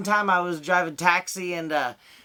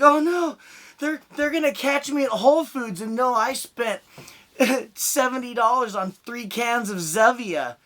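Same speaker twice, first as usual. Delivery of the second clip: mock panic; 4 semitones higher than usual.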